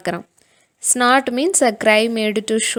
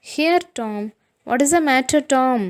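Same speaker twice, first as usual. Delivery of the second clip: higher, louder worried question; anxious; 4 semitones higher, 5 dB louder, much slower than usual. Acted. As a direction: ask it raised and urgent, worried. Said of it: "looked in his face anxiously".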